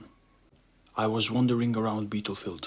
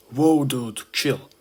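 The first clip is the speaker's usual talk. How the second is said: startled; 5 semitones higher, 7 dB louder, much slower than usual. Acted. Ant startled by a swing.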